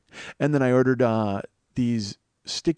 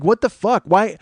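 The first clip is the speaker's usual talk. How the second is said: high, loud, indignant disbelief; baffled outcry; 9 semitones higher, 8 dB louder, slower than usual. Retold or imitated. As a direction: act out a stunned reaction. Baffled reaction to angry text.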